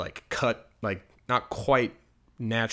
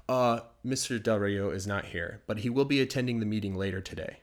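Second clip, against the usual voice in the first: professional secretary. Acted. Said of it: "her voice is saying, I'm being professional".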